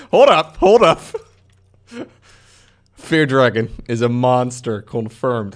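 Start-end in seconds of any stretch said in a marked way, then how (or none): 0.1-1.0 sudden loud call to stop; loud hold up. Real, not acted. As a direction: snap everyone to a halt. Sudden alarm in game.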